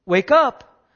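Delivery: crying out. Retold or imitated. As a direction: call out hard to wake the sleeper. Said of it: "he's crying and he's calling".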